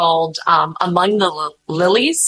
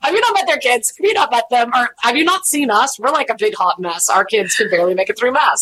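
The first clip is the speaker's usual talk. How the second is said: incredulous; 3 semitones higher than usual. Retold or imitated. Retold incredulous rant.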